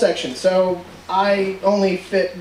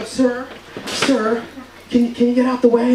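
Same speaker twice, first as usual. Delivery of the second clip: polite attendant; 3 semitones higher than usual. Retold or imitated. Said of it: "they don't even go".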